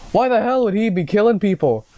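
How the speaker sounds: high-pitched, baffled commissioner voice; crying-out commissioner. Acted. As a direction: cry it out in a high character voice. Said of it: "the commissioner cried out".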